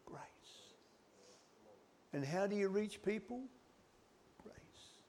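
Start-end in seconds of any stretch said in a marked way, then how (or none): 0.1-0.7 whispered. Real, not acted. Preacher answering his own question in a whisper. 4.4-5.0 barely voiced, soft whisper. Real, not acted. Preacher naming how to reach people, whispered. Hushed answer in sermon.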